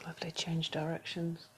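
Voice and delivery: soft, unhurried meditation guidance with whispered cues; guided meditation. Acted. Yoga teacher guiding the class through a body scan, soft meditation voice. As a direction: ease the class into stillness, gently.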